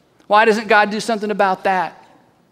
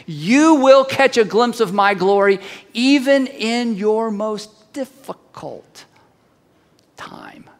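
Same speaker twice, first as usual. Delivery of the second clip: slowing, hushed ending; slower than usual. Acted. Preacher slows and drops climactic promise.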